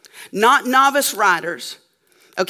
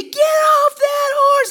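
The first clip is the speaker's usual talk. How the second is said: yelled warning; slower than usual. Retold or imitated. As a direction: yell at the kid to get off. Owners yelling at trespassing child.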